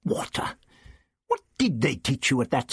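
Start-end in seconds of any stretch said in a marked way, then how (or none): 0.0-0.5 whispered scornfully; the Doctor scoffs under his breath at Ian. Acted. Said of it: "Water, (spoken)".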